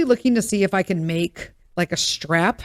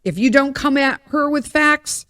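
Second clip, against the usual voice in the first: building rant; 3 semitones higher than usual. Real, not acted. Praising the YouTuber who answers with facts, building excitedly. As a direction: pile the facts on faster. Mock-ranting admiration.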